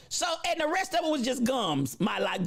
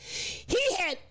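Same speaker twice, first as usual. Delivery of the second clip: slow, drawn-out nasal preacher intoning; a solemn nasal pulpit drone, very slow; 3 semitones lower, much slower than usual. Retold or imitated. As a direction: preach it nasally, dragging every word. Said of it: "He talked real nasal-like".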